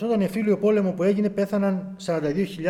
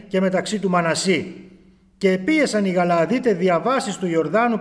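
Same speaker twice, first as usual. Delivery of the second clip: solemn, measured reading of the Bible; scripture reading; 4 dB louder than usual. Acted. Preacher reading Judges aloud to the brethren, solemn. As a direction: read the verse out with gravity.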